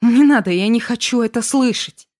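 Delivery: high, loud pleading refusal; desperate shouting. A narrator's reading. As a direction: shout to block out his words. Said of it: "закричала я".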